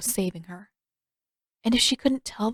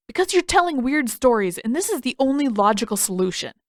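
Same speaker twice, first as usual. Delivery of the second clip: higher, louder smug reasoning; mock-logical Sokka; 5 semitones higher, 4 dB louder than usual. A narrator's reading. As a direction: explain it like it's obvious.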